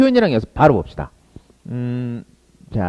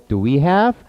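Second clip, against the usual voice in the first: slow drill; 3 semitones higher, much slower than usual. Shown as a demonstration. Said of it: "좀 더 자연스럽게 나오게 연습".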